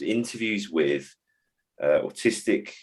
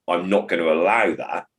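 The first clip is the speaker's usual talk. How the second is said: firm, clipped. Shown as a demonstration. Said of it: "it's clipped".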